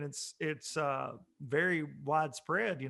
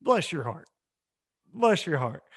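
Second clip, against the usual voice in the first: passive aggressive. Pretend. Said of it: "I'll say".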